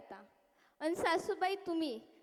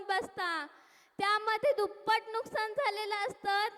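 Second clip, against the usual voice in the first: anguished cry. Acted. Farmer crying out to god.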